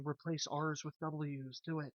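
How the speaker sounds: slow, soft voice in the head; creepy inner voice. Pretend. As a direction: coax like a parasite in your brain. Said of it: "it's always saying".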